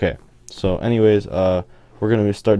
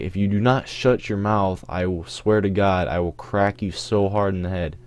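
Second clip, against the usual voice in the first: retold stern warning. Retold warning during an argument.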